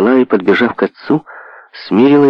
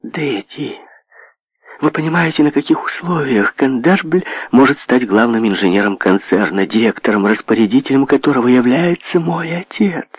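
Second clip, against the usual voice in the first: with enthusiasm; 5 semitones higher than usual. Acted. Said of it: "продолжала с воодушевлением".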